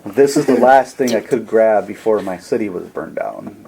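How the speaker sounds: a gently calming refugee, lightly voiced; calm well-spoken man. Robed stranger explains his burned city to Sid, calm and soothing. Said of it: "his voice is very calming".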